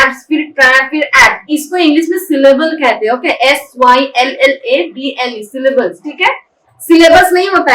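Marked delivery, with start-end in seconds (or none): 0.0-1.5 एब्स, ट्रैक्ट, एक्ट as separate chunks; broken into syllables. Shown as a demonstration. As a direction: demonstrate the breaks between एब्स, ट्रैक्ट and एक्ट. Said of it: "ये जो मैं break कर करके बोल रही हूँ ना".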